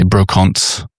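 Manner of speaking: brocante in an Australian accent; Australian-accented brocante, drawn out. Shown as a demonstration. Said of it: "in an Australian accent".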